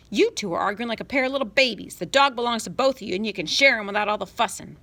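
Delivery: a touch of a mother's scolding shout; mild mock yell. Mother mildly yelling over her bickering children. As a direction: scold them lightly over the din. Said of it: "Mother yelled above their commotion".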